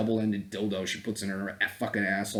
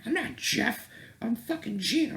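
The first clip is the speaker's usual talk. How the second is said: indignant girl mockery; 13 semitones higher than usual. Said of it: "she's like".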